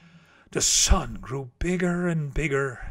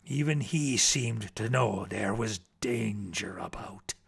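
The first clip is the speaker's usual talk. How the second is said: lowered, breathy suspense; hushed whisper; 7 semitones lower, 7 dB quieter than usual. A narrator's reading. Narrator hinting at danger to listeners, whispered. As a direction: whisper it, as if danger might hear.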